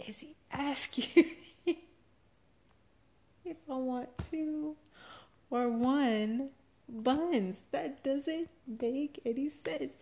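baffled inner voice. Retold or imitated. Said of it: "And I'm like".

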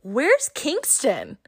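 high, gushing mock greeting; a hint of a nosy acquaintance gushing; lightly mimicked fake-friendly chatter; chirpy nosy acquaintance. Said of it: "they're like".

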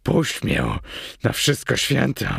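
desperate groaning entreaty; pleading, strained character voice; moaned plea. A narrator's reading. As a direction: beg to be let go, moaning. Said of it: "jęknął, zmieniając ton".

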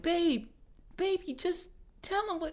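high pleading Boston mom. Retold or imitated. Mom begging her son, in a high pleading voice. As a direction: coax him like a worried mother. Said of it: "the mom's like".

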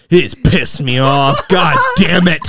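low, slow retold grumble; pissed-off dad. Dad answering his worried son, pissed-off grumble. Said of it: "Like, he's pissed".

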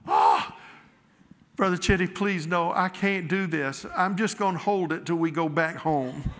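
beg, aghast, to be spared; pleading lady. Retold or imitated. Lady pleading with the preacher at the latrine, aghast.

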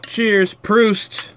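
put-on loud Dutch accent toast. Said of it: "Gotta say it with a Dutch accent".

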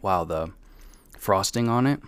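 chewing while talking; mouth full. Real, not acted. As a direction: talk through a bite of candy. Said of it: "I'm gonna bite".

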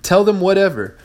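a mock outraged boss with a high-pitched disbelief; exasperated outburst. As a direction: throw it back at them in disbelief. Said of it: "And I'd say".

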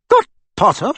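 high, loud, snapped question; sharply. Acted. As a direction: snap the question at him. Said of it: "said Professor McGonagall sharply".

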